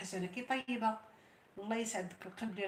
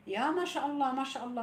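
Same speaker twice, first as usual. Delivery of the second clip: delighted exclaim; 5 semitones higher, 3 dB louder than usual. Real, not acted. Delighted reaction to comment.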